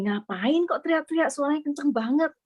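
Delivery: mildly startled protest, no real shouting. Retold or imitated. Child woken at five by father's calls, mildly startled. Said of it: "Saya tuh kaget jam lima pagi".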